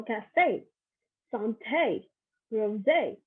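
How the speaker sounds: "cafe, santé, rosé" ending on a clear "ay"; French accent aigu. Shown as a demonstration. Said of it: "to a higher pitch at the end".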